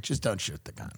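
low, limp, unbothered plea; mock unaffected calm. Mimicking a calm man on a cot, low and limp. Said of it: "Andy Dick's like".

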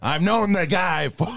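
incredulous movie-star impression with a high jump; Al Pacino. Actor questions his co-star being Irish, incredulous Pacino impression. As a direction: punch each short phrase in mock disbelief. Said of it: "Pacino just went from being like that really high voice".

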